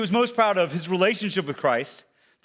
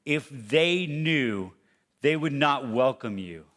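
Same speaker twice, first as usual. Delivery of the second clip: low, slow, lightly voiced accusing voice; accusing inner voice; 5 semitones lower, slower than usual. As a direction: speak as the slow lie in your ear. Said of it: "You know you've heard that voice".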